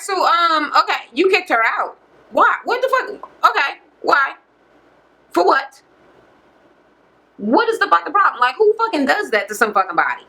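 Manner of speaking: retold pissed-off questioning. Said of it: "Rochelle is pissed in the house".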